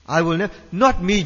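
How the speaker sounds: emphatic insistence. Retold or imitated. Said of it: "Peter insisted emphatically".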